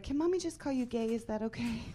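high, sugary mom voice; sweet mommy voice. Retold or imitated. Mom pleading sweetly to daughter.

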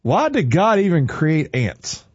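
a hammed-up yelp of pain, then a slow complaint; mock yelp of pain; mock scream. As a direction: play the stung dad, yelping. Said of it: "He screamed".

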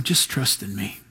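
very low and very soft, calm; a gentle reassuring hush; still small voice. Pretend. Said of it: "It's that still, small voice".

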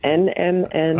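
slow, careful spelling-out. Real, not acted. Guest correcting the host on the supplement's name, slowly. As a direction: say the letters one at a time. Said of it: "You have to say it slowly".

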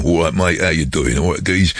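disguised voice as a chummy Londoner; Londoner accent. Shown as a demonstration. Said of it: "try and talk like the Londoner".

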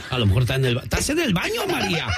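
teasing question through real laughter; giggling tease about being in the bathroom; laughing. Real, not acted. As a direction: laugh while asking, high and playful. Host teasing caller about bathroom.

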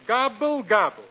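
spoken gobble, high then dropping; turkey gobble. Acted. Reading a farm primer aloud, lightly imitating a turkey. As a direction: gobble it as two schoolbook words. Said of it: "and the turkey says".

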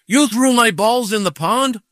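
high, indignant imitated question; retold angry accusation. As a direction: accuse as the intimidating golfer.

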